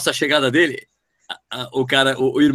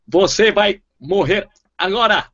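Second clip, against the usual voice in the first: dubbed villain; 4 semitones higher, slower than usual. Pretend. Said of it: "o Jaspion".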